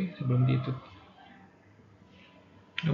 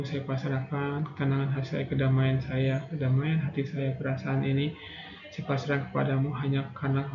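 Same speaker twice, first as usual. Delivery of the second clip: guided prayer. Acted. Leads closing prayer.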